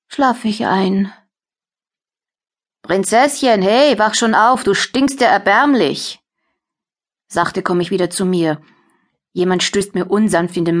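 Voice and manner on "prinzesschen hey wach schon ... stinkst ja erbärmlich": mocking wake-up. Captor wakes prisoner roughly.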